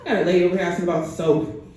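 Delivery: calling out. Acted. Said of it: "Shouts back to somebody".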